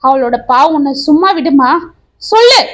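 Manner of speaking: demanding the truth, partly hammed-up; shouting. Husband confronting his wife over the letter, shouting. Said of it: "என்று கத்தினான் கோபி".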